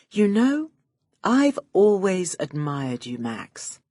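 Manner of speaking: butter him up shamelessly; laying it on thick. Acted. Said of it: "I was laying it on thick".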